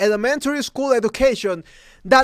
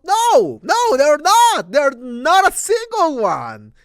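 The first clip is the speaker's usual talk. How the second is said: higher, louder, slow furious shouting; real outraged shout; angry shout; 6 semitones higher, 5 dB louder, slower than usual. Real, not acted.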